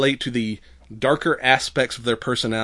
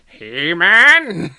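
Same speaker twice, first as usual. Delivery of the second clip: laughing shout; 8 semitones higher, 9 dB louder than usual. Acted. Mocking He-Man, loud laugh.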